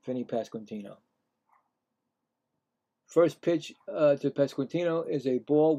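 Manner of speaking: announcer voice introducing the batter; play-by-play announcer. Acted. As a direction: read the stat line like the booth. Calling batter and pitches.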